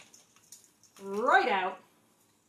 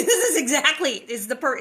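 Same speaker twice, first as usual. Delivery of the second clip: laughing; 3 semitones higher, 9 dB louder than usual. Real, not acted. Laughing with excitement.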